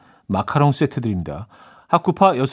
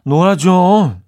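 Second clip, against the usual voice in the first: drawn-out, rising maternal nagging; nagging mother; 4 semitones higher, 5 dB louder than usual. Acted. Mother scolding a studious child to go play, nagging. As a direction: nag louder and higher with each plea. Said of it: "이 엄마에게 매일 잔소리 들었던".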